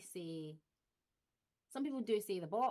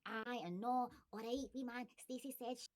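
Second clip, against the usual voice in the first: hammed-up broad Glaswegian patter; mock broad Glaswegian; 4 semitones higher than usual. Mocking what Scots supposedly all say, in broad Glaswegian. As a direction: play up a Glasgow stereotype. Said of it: "everyone in Scotland doesn't go around saying".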